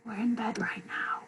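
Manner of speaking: soft, whispery bedtime reply; acted drowsy half-whisper; sleepy murmur. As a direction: answer as if barely awake. Acting sleepy woken partner.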